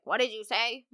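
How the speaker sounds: lightly voiced grandpa, questioning rise; a hint of a puzzled grandpa; imitated grandfather. Grandpa answering grandma's question, lightly put-on voice. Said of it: "your grandma walked up and she's like".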